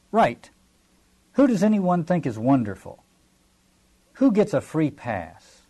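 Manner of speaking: loud, brisk editor challenging the room; rally the hacks like a gruff editor; bossy editor. Retold or imitated. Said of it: "Claude Coburn would ... and say".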